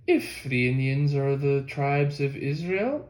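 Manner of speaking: slow, deliberate, weighing each word; pointedly. Retold or imitated. Narrator quoting Ethan Smith's argument, slow and pointed. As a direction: lay out the condition pointedly. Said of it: "Ethan Smith said pointedly".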